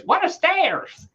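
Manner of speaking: high, slow bewildered question; mock baffled local. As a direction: act dumbfounded. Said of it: "and they go".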